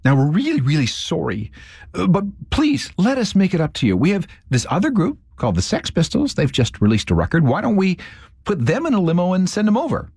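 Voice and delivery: high-pitched, mock-desperate apology; apologetic pleading. Record label calls the studio to make amends, pleadingly apologetic. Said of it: "really upset and really apologetic".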